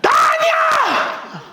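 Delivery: drawn-out desperate yell, pitch soaring; Jehoshaphat's slow, frantic cry of denial; panicked shout. Acted. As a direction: scream it like a king fleeing an army. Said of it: "여호사밧이 소리를 질러요".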